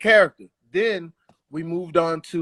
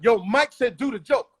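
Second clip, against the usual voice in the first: raised-pitch relayed order; retold yell; 4 semitones higher than usual. Mike's man ordering the comic on stage, mild yell. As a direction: call it out as a warning. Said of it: "then the dude yells out".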